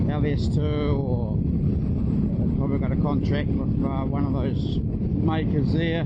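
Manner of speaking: talking through a helmet mic while riding; inside a helmet. Real, not acted.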